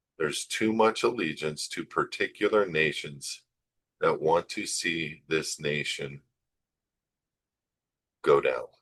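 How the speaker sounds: measured, word-by-word. Speaker repeating his last sentence again, speaking slower. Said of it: "Let me say that again slower".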